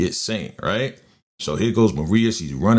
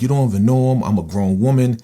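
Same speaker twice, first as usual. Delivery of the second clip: higher, louder, indignant comeback; defiant retort; 4 semitones higher, 5 dB louder, faster than usual. Retold or imitated. Daughter told to drop the boy, defiant retort. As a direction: argue back with raised pitch, standing your ground. Daughter argues back at father.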